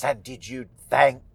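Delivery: lightly voiced witch, rising at the end; a touch of imperious witch; Old Widow Holcomb. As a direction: question the girl with measured grandeur. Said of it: "And she says".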